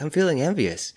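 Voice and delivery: lightly voiced "I'm feeling envious"; mock confession. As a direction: toss it off as a playful mock admission. Mock voicing the feeling aloud.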